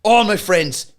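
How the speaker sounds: slow, drawn-out mock grief; slow mock lament. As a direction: stretch it out like a lament. Acted quote in retold story.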